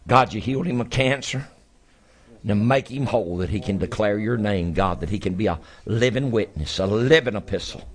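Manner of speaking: fervent prayer building then fading; healing prayer. Real, not acted. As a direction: pray with rising fervour, then soften. Praying over the sick.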